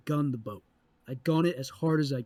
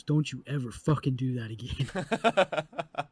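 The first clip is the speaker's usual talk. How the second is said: stern warning; slower than usual. Retold or imitated. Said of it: "immediately looks to me and goes".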